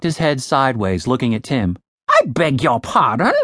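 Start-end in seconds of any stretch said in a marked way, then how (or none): 2.1-3.3 lightly prim British query; a polite British huh; British bird, puzzled. Acted. Ravenous not understanding Tim, British. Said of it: "speak in a British accent".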